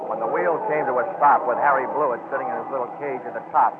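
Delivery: projected radio storytelling; detective narration. Acted. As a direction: carry the listener through the trick, step by step. Lead resumes narrating.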